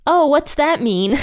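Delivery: high, slow bewildered question; puzzled friend. Retold or imitated. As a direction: ask as if totally lost. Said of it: "they're like".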